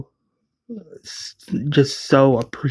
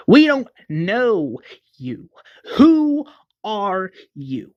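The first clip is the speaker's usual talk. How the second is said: challenging; 7 semitones higher, slower than usual. Acted. Tyrese challenges John Miller.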